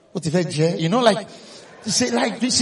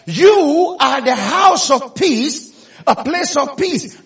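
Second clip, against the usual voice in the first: slow tender declaration; 3 semitones higher, much slower than usual. Acted. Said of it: "he said".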